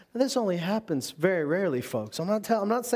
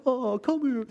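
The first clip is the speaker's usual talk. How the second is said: higher-pitched pitying coo; mock coddling; 6 semitones higher than usual. Preacher imitating the sympathy he wants from family, mock coddling. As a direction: coddle someone in a put-on voice.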